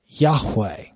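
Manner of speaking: Yahweh said slowly and clearly as YAH-weh; Yahweh in two clear syllables, YAH then weh; careful pronunciation. Shown as a demonstration. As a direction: set out Yahweh as the approximate Hebrew name. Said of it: "this is gonna be the approximate pronunciation".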